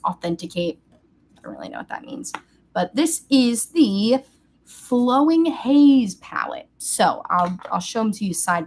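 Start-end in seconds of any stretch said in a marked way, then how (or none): 1.4-2.3 whispered aside, no voice; a confused little whisper to the camera. Real, not acted. Whispered aside about the labels. 2.7-6.7 slow, higher, louder reveal; slow, drawn-out announcer reveal of the palette; grand reveal. Acted. Dramatic product reveal.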